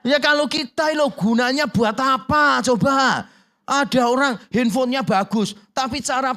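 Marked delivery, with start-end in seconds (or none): 0.0-3.2 louder, forceful preaching; preaching loudly. Real, not acted. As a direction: drive the point home to the hall. Khotbah dengan suara keras. (pengkhotbah berseru lantang sambil tertawa)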